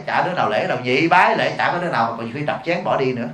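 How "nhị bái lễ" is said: lightly intoned funeral rite command; mock ceremonial call. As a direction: call out the second bow like an officiant. Acts out second funeral bowing command. (giọng xướng lễ giả vờ)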